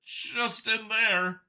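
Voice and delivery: high, very slow alien voice; Xeno voice. A narrator's reading. Xeno telling Vincent, high and slow. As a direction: point it out warily.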